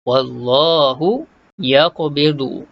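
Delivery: slow Wallahu yaqbidu with bounced q; recited. Shown as a demonstration. Teacher reciting the verse slowly.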